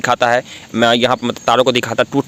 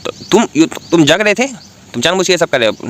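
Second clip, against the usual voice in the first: indignant accusation; 7 semitones higher than usual. Acted. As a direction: call him out for faking sleep. Realizes he was awake, accuses. (ऊँची आवाज़ में नाराज़ इल्ज़ाम)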